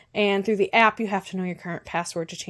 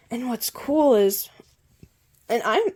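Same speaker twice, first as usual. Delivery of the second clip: hiccups breaking up the words; hiccuping; 3 semitones higher, 3 dB louder than usual. Real, not acted. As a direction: talk through hiccups. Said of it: "I keep hiccuping".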